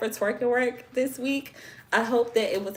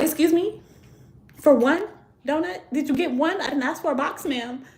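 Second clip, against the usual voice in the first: higher-pitched incredulous questioning; mock disbelief; 6 semitones higher than usual. Customer questioning cashier over donut price, mildly incredulous. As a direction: lightly replay your shock at the counter.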